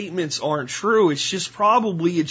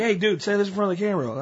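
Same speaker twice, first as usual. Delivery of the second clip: put-on a fast, jokey Italian accent, pitched up; hammed-up Italian, rushing the order; mock Italian accent; 4 semitones higher, faster than usual. ISIS handler pushes a recruit to speak on camera, in a mock Italian accent. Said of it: "sound Italian".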